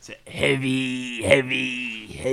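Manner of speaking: slow, lightly deepened bass line; a hint of a deep bass singer; mock bass voice. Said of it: "I could probably do bass".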